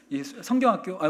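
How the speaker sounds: normal talking voice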